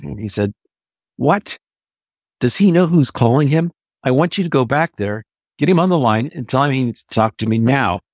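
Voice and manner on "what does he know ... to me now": raised, higher-pitched angry officer; hammed-up indignant major; retold explosion. Major shouting down the phone at the switchboard operator, exploding. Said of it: "And he just exploded".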